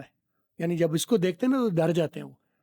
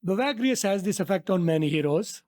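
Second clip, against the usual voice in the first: slow teaching read; much slower than usual. Shown as a demonstration. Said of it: "repeats line slowly".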